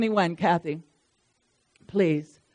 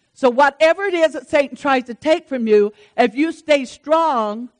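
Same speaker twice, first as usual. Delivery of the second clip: raised, exhorting sermon voice; emphatic preaching; 3 semitones higher, 5 dB louder than usual. Real, not acted. Preacher telling believers to stay strong, emphatic exhortation. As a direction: press the promise home with conviction.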